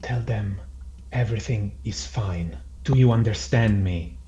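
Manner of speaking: restrained threat, each phrase set apart; mild intimidation. Acted. Flint to the captured cleaner, mildly intimidating. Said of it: "Yeah, for intimidation purposes".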